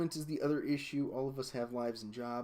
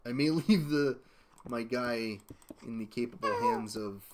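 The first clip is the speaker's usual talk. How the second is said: laughing; 4 dB louder than usual. Real, not acted. Laughing about diaper change.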